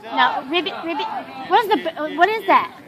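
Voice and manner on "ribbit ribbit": frog croak. Shown as a demonstration. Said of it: "what the frog says".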